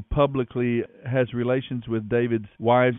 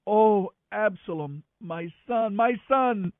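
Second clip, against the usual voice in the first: crying out in grief; 10 semitones higher than usual. A narrator's reading. King bursting into tears over Absalom, grieving cry. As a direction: wail for a lost son, drawing out the words. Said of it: "he cried".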